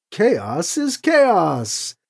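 very slow, grand declaration; slow, solemn proclamation of faith; proclaiming. Acted. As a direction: pronounce it like scripture. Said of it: "the heretic proclaimed".

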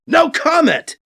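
loud irritated snarl; snarled refusal. Acted. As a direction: bite it off. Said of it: "B C snarls".

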